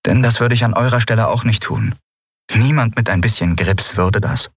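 Lien, amused and scoffing. Acted. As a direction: tease them for their fear, amused.

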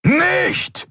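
very high, urgent yell; bellowing. A narrator's reading. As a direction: yell to hold her back. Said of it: "brüllte Kero".

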